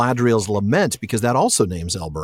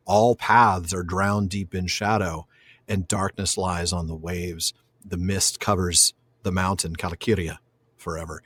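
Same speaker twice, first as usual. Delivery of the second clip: poem recitation; 3 semitones lower, 5 dB quieter than usual. A narrator's reading. Quotes the lament again, slowly.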